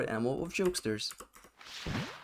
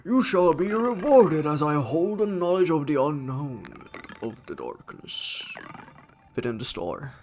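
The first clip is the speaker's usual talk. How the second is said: louder, solemn, then hushed; grand mystical spirit; 3 semitones higher, 4 dB louder than usual. Acted. Star spirit rewarding the toad, grand then hushed. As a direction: intone it like an oracle.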